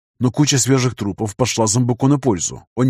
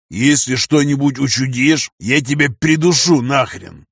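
threatening; 2 semitones higher, slower than usual. Acted. Bulldog threatens captive.

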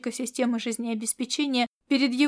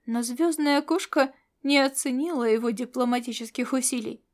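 ordinary talk

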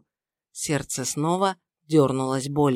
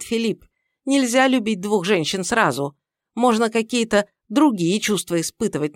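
scornful lecture; 3 semitones higher, 4 dB louder than usual. Acted. Mother-in-law lectures about mistress.

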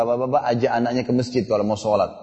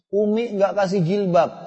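imitating a crying child; 5 semitones higher, slower than usual. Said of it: "dia nangis".

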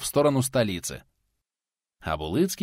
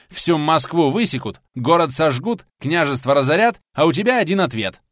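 heated rant; 4 semitones higher, 5 dB louder than usual. Acted. Pensioner's heated tirade.

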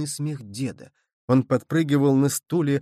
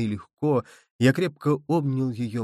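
ordinary delivery, nothing marked

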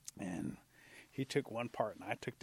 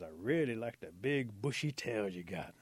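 slow, lingering compliment; admiring flirtation; 4 dB louder, slower than usual.

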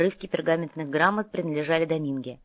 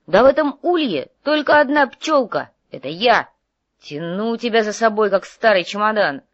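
loud, indignant back-and-forth bickering; heated quarrelling; 4 semitones higher, 7 dB louder than usual. Acted. Overworked partner berates the idle one, loud and indignant. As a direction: argue back loudly, stressing the grievance.

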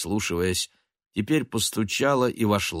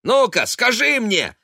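high, loud, angry shout building up; 7 semitones higher, 5 dB louder than usual. A narrator's reading. Son shouting at his mother about money. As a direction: yell back at her, furious. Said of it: "закричал он".

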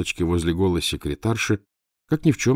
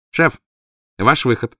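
loud eager call; 5 semitones higher, 6 dB louder than usual. A narrator's reading. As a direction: call him in, full of zeal. Valya calls the chief in.

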